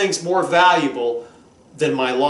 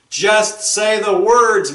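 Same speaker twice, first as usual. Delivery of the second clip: mock demanding wife; 5 semitones higher, 4 dB louder, much slower than usual.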